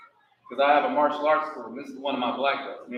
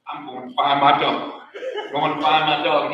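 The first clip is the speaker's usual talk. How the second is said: mock determined; 6 dB louder than usual. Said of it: "Buddy just said".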